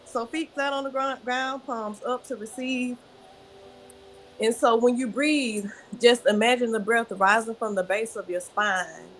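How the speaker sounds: unhurried breathing instructions; guided breathing. Shown as a demonstration. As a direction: lead them through the breath gently. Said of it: "So show me how you breathe from the belly".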